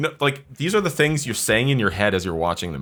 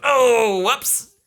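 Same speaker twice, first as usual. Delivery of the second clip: high, sing-song mock dismay; mock oops voice; 10 semitones higher, much slower than usual. Friends mocking the movie crew, high and airy. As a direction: play a careless crew shrugging it off.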